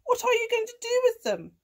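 high, loud cow's reply; mooing cow. A narrator's reading. Cow agreeing to cat's request, high mooing voice. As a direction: answer as a storybook cow. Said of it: "she mooed".

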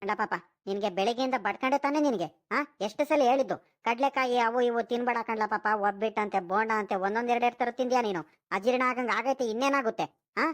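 a touch of exasperated telling-off; mild scolding. Acted. Grandfather chides boy for overeating, mild scolding. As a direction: chide a child who ignored advice. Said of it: "ಹುಡುಗನ್ ಯಾಕೆ ಹಿಂಗ್ ಗದ್ರಿಸ್ತೀಯೋ".

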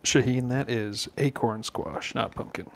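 slow, low, hushed golf announcer; golf commentator. Acted. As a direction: murmur it like a golf broadcaster. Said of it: "Art using his golf voice again".

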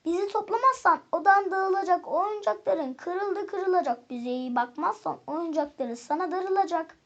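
lightly chanted warning rhyme; rhyme recital. A narrator's reading. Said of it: "tekerleme ile söze". (tekerleme söyler gibi)

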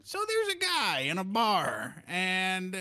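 imitating joke teller. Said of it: "guy walking up to me going".

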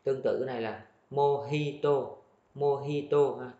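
mojito with a Spanish h, "mo-hi-to". Shown as a demonstration. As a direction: say mojito with an h sound. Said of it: "chữ hờ luôn ha".

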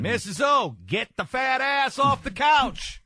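high mocking First Lady voice, hammed up; mocking imitation. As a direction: squeal it like a preachy slogan. Mimicking First Lady's slogan, mocking.

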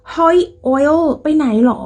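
playful pretend call-out; calling a friend. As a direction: hail a friend in demonstration. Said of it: "เวลาเรียกหมู่เนาะ".

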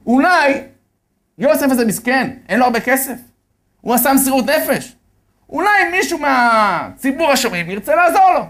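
rally the audience to help; appeal to listeners. Retold or imitated. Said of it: "אומר לאנשים בקהל".

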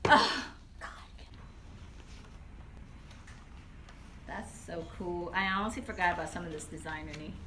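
muffled behind cloth mask; speaking with mouth covered; through a face mask. Real, not acted. Seen 0: White cloth mask covers mouth and nose throughout; removed by +11.

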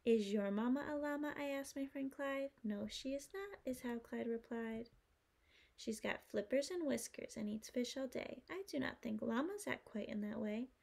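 lively rhyming storybook voice; reading to a toddler. Acted. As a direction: read with bouncy rhythm to kids. Reading rhyming picture book.

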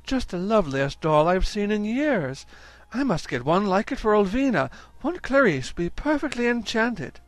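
gushing Mrs Brown. Acted. Mrs Brown to Mrs Jones about the doll, gushing. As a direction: coo over the doll.

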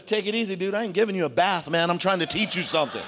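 a hint of laid-back dude talk; Jesus telling Peter to calm down, casual. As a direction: brush him off lightly. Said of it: "And Jesus says".

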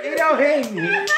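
slow loud strained cry; eating contest shout. Real, not acted. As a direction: yell through burning mouth. Spicy chip in mouth.

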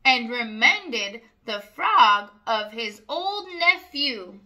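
sing-song rhyming read-aloud; reading to children. A narrator's reading. Reading a rhyming farm book to children, sing-song. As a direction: lilt each rhyme for little listeners. Story narration.

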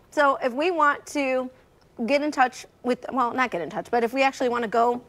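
talking while chewing; words around a mouthful of Brussels; mouth full. Real, not acted. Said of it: "I'm chewing so much I can hardly talk".

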